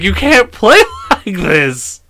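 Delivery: high, loud, drawn-out mock complaint; exasperated protest. Dad scolds daughter for playing dead, wailing protest. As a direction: stretch it into a half-laughing wail.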